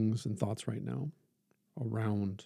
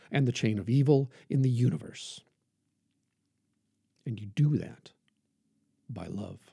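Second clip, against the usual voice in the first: measured oratory with punched key words; emphatic preaching; 2 semitones higher, 5 dB louder than usual. Acted. Preacher reading King's plea to love your enemies, emphatic oratory. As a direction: preach it in weighty phrases, swelling on the key words. Reads King's sermon aloud.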